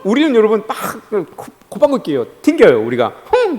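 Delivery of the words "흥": short, dismissive "hmph"; mock scornful snort. People brushing off God's proposal, scornful snort. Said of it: "그러면서 콧방귀 뀌어요".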